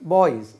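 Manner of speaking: பாய்ஸ் with the final ஸ் voiced as Z; Z sound ending. Shown as a demonstration. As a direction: end பாய்ஸ் on a buzzed Z, not S. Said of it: "ஜெட் உச்சரிப்பு". (பாய்ஸ் கடைசி ஒலி ஜெட் உச்சரிப்பு)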